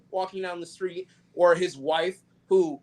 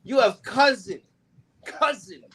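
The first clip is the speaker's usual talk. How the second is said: put-on loud, high Chicago accent shout; 8 semitones higher, 3 dB louder than usual. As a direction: yell it like a Chicago guy. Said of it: "Great Chicago accent".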